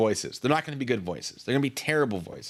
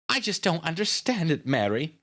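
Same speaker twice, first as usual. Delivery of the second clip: higher-pitched, mildly upset character; lightly acted distress, pitched up; tearful character voice; 7 semitones higher, 4 dB louder than usual. A narrator's reading. Grieving Nita confides in Miss Miller, mildly tearful. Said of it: "Nita York started crying again".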